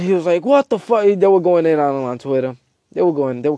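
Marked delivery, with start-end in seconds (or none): 0.4-1.0 higher-pitched acted outrage; mock angry outburst. Narrator voicing Smart mad at Twitter trolls, mock angry. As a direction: act out an indignant reaction to what you've read. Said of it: "He got mad".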